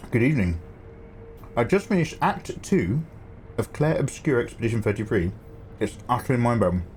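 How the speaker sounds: words round a mouthful of food; chewing while talking. Real, not acted. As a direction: talk while still chewing. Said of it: "Sorry, Matt, I'm chewing".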